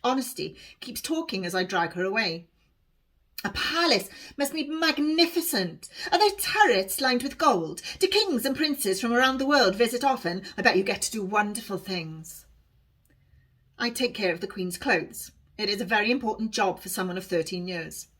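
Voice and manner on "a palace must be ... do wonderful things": lightly voiced girl, a touch higher and bright with wonder; an awed girl dreaming of the palace; hint of a wide-eyed village girl; eager young girl. Honesty's eager questions.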